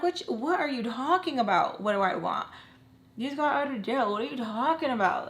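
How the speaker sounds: mild mock yell, indignant; retold argument. Daughter arguing back at mom, retold with mild indignation. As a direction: re-enact arguing back without really screaming. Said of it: "So we start screaming at each other".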